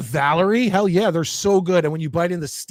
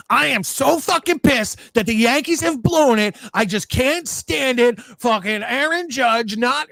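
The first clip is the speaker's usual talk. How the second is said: mock angry fan; 5 semitones higher, slower than usual. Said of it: "be like".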